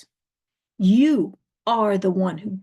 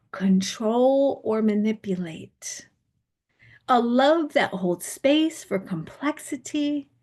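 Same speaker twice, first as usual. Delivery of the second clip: guided meditation. Acted. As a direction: lead them gently into the feeling. Leads a guided spiritual meditation.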